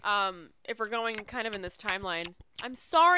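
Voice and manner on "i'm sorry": talking through popcorn; chewing while talking. Real, not acted. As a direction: mouth full of popcorn. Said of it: "I'm chewing, I'm hungry".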